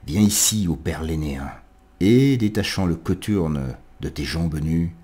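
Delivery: declaimed verse with lifted calls and pauses; poetic invocation. Acted. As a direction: recite it as an address to a god, phrase by phrase. Lit une invocation de Virgile. (invocation poétique déclamée, phrasé posé)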